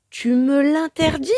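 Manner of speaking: high, loud outraged question; furious echo. A narrator's reading. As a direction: throw his words back in fury. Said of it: "répète Carmelita d'une voix furieuse".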